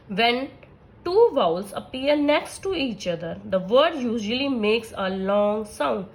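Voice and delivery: very slow, deliberate dictation of a rule; reading a rule aloud. Acted. Teacher dictating the phonics rule to her class, slow and measured. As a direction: read each word slowly so students can copy it.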